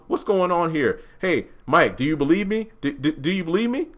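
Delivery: high, frantic denial; panicked pleading. Retold or imitated. Greg desperately pleading with Mike, high and panicked. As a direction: scramble to explain, rushing and begging.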